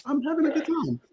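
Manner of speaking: high, put-on posh British accent; an American in London showing off his new British accent. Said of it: "Well, what's with this voice?".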